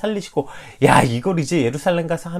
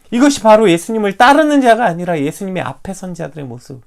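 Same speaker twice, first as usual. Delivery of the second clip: normal talking voice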